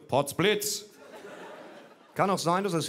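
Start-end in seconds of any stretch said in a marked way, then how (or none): 0.1-0.8 higher, laughing mock cry of surprise; mock exclamation. Looking down at himself, a hammed-up cry of surprise. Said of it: "Ich sehe an mir herab und rufe".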